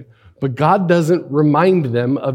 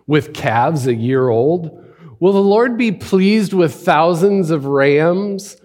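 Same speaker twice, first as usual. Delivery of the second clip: scripture read with a sarcastic bite; 2 semitones higher than usual. Acted. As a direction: read with a dry, mocking edge. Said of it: "read it a little bit with a little bit of sarcasm".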